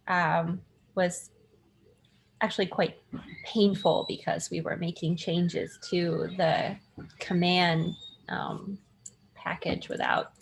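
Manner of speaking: audio through computer speakers; tinny laptop mic sound. Real, not acted. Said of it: "I apologize in advance for my audio because I cannot find my headphones, so I'm speaking through the computer itself".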